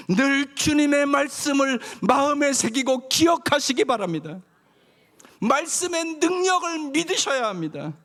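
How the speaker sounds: high, loud rising exhortation; preaching at full force. Acted. Pastor rallying the congregation to overcome, full preaching force. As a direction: build it up, proclaim victory.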